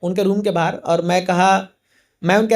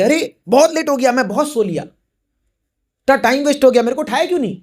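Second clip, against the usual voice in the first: higher, mildly agitated protest; retold alarmed complaint; 4 semitones higher than usual. Guru waking to scold his attendant, retold alarmed complaint. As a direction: imitate someone dismayed at oversleeping.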